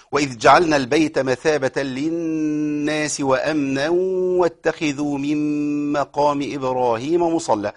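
very slow melodic tajweed chant; Quran recitation. Shown as a demonstration. Teacher chanting the verse to show the stops, slow recitation. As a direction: draw every vowel out in recitation.

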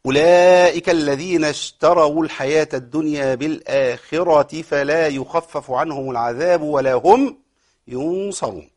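slow, drawn-out tajweed chanting; Quran recitation. Shown as a demonstration. Teacher reciting the verse to his students, slow chant. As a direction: recite each word slowly and melodically.

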